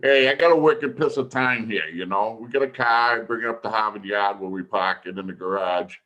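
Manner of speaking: playful Boston local, R's dropped; hammed-up Boston accent. Hams up own Boston accent.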